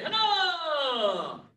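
shouted drill count; sharp martial arts commands. Real, not acted. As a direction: bark the count to the class. Instructor counting kicks.

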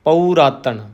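ਪਉ ਰਾਤਨ split as pau raatan, not ਪੁਰਾਤਨ; careful pronunciation. Shown as a demonstration. Teacher warning students against saying ਪੁਰਾਤਨ, careful. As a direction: stress ਪਉ and keep it apart from ਰਾਤਨ. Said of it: "ਪੂਰਨ ਤੌਰ ਤੇ ਦੁਲੈਂਕੜ ਉਚਾਰਨ ਕਰਨਾ ਹੈ".

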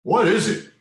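high loud rooster cry; crowing rooster. Acted. Reading aloud, the rooster crows at the big chick. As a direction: crow it out like a rooster. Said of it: "crowed the little rooster".

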